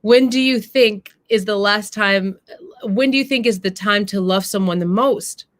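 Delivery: a hint of the wise mother, earnest and measured; mama's speech. Mama lecturing her daughter about love, gently earnest. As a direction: read it as the mother teaching her son's sister. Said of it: "And the mama says this".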